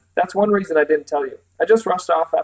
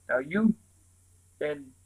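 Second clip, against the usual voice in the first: put-on creaky old woman; 6 dB quieter, slower than usual. A narrator's reading. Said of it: "a voice like an unoiled gate".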